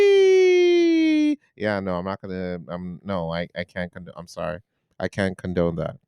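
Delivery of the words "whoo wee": high falsetto hoot; whoo-wee hooting high. Real, not acted. Friend reacting to a podcast joke with a shrill hoot. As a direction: let out a squealing whoo-wee.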